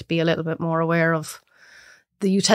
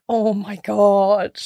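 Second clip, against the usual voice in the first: much higher, laughing shriek; mocking friends; 13 semitones higher, much slower than usual. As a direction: shriek in amused disgust.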